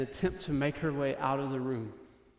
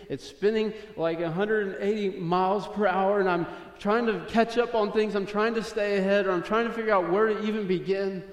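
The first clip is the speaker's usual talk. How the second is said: raised, urgent piling-up of worries; impassioned preaching; 5 semitones higher, 5 dB louder than usual. Real, not acted. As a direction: build a harried list at higher pitch. Preaching on life's frantic pace.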